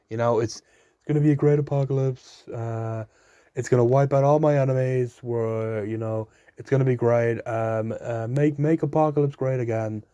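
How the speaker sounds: a hint of a bad Donald Trump boast; lightly mocking presidential brag; terrible Trump impression. Irish vlogger mocks Trump's apocalypse spin, barely voiced. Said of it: "That was a terrible Trump impression".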